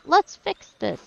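loud and eager; rallying shout. Acted. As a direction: call the crowd to action. Crowd rallying to act.

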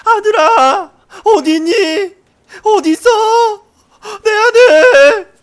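hammed-up high, drawn-out screams for a lost son; frantic mother calling. Player acting how a real mother would search for her son, frantic screaming. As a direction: wail it out at the top of your voice. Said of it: "근데 진짜 엄마면".

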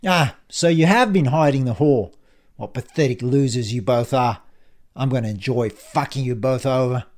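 a touch of gloating contempt; lightly voiced menacing villain. Ian taunts the pair he means to ruin, mildly menacing.

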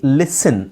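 "ಲಿಸನ್" said lis-sen, with no T sound; silent T. Shown as a demonstration. Teacher correcting a reading with "ten", silent T. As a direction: say "ಲಿಸನ್" carefully, dropping the T. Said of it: "ಟಿ silent ಆಗಿರುತ್ತೆ".

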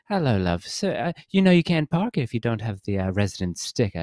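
lightly put-on British accent; a hint of a British lady's accent; imitated British woman. Imitating the woman challenging a driver about parking, light British accent. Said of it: "she's doing more of the".

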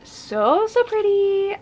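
high-pitched admiring squeal; delighted gushing. Real, not acted. Book lover admiring her special editions, gushing high. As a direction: let the voice leap up in delight.

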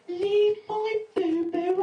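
high, loud, slow wail; protective mum. Retold or imitated. Mum shielding her son from a heckler, high wail. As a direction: wail like a mother defending her baby. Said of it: "my mum coming up to me and saying".

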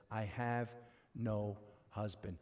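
low, soft and slow, letting "no husband" sink; thrown-away ending. Shown as a demonstration. Preacher showing how she hides her lie, low and quiet. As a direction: drop the voice and tuck "husband" away at the end. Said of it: "she throws it at the end".

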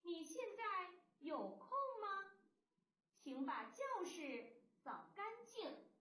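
slow, careful reading of a question and a request; model reading aloud. Shown as a demonstration. Teacher reads the sentence slowly for pupils to repeat. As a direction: read it out slowly for the class. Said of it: "我们一起读一读".

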